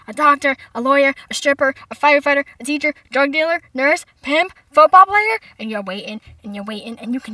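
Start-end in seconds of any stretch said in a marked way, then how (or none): 0.1-5.4 mounting suspense. Retold or imitated. Parents' frantic guesses, building.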